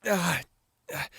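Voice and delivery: short winces of pain; pained gasps. Acted. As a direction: gasp at the sting of antiseptic. Winces as scrapes are dabbed.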